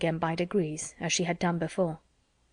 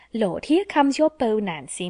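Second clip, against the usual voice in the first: cousin's teasing; 3 semitones higher, 3 dB louder than usual. Retold or imitated. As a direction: mimic the cousin's sing-song tease. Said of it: "my cousin said t'other day".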